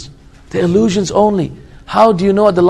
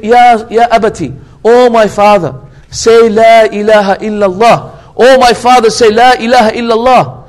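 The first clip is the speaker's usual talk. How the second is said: slightly louder, emphatic appeal to a father; earnest plea; 2 semitones higher, 4 dB louder than usual. Retold or imitated. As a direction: retell a son's urgent plea. Son pleading with dying father.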